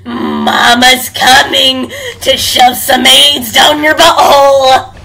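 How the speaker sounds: slow hammed-up taunt rising to a shout; drawn-out mock threat, ending in a yell; taunting granny voice.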